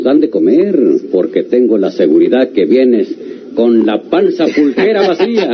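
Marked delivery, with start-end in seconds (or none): 3.5-5.5 teasing laugh. Acted. Host teasing his hungry guest, laughing. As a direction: joke and dissolve into laughter. Ontiveros teasing Buitrón over drinks.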